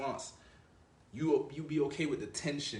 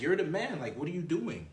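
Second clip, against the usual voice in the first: put-on testing girlfriend; 5 semitones higher than usual. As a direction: needle him like a girl testing her man. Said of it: "test the shit out of him".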